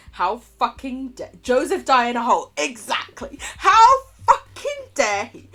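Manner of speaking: loud, high outraged wail; mock outrage. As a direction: wail with over-the-top indignation, stretching the words.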